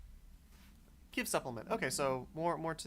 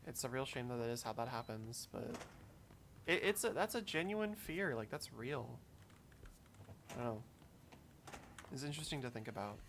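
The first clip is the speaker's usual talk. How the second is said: subdued musing, trailing softer; introspective; 7 dB quieter than usual. Real, not acted. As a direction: think aloud quietly after a sad letter. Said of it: "I got really introspective there".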